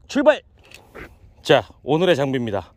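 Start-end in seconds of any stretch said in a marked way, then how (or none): 0.1-0.4 higher, punchy call to go; sudden lift in pitch; rousing send-off. Real, not acted. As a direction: call out the start. Calls out the start.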